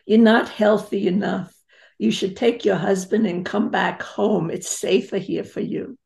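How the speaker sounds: imitating mother's European accent; worried European-accented mother urging her child. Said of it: "I'm gonna do it in her accent".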